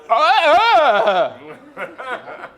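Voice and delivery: high, loud, slow gasp with a laugh; mock shocked client. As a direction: ham up a client aghast at the fee.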